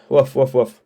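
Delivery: coughs that bark like a dog; rough dog-like cough. Real, not acted. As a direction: hack it out like a dog's woof. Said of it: "What am I, a fucking dog?".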